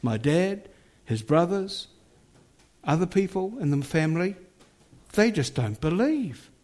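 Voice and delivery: lightly voiced young woman's words; voicing the young woman. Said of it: "And she said".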